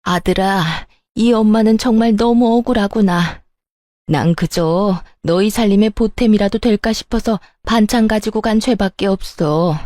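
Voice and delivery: lightly hammed-up, self-pitying lament; fake crying. Mother-in-law complaining to her son of being wronged, mock weeping. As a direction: plead as a wronged mother, tearfully put on. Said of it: "입으로만 울고 있는 시모".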